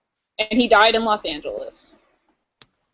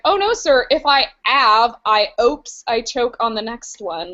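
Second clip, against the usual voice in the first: mock Cockney maid. Maid denying drink to sir, mock Cockney accent. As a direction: protest as a hammed-up Cockney maid. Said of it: "lower class compared to the other people via her accent".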